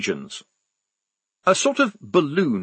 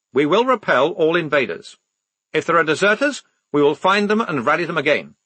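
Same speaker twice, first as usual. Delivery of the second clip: put-on stiff young lieutenant; 5 semitones higher than usual. The lieutenant's voice held for many lines.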